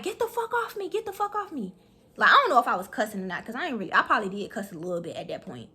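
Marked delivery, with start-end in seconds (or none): 0.0-1.8 retold protest. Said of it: "now I'm really just like".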